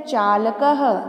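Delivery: चालकः with final h sounded; visarga as ha. Shown as a demonstration. Teacher modelling the next word for practice, visarga as ha. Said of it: "एक एक करके इन शब्दों का उच्चारण करती हूँ".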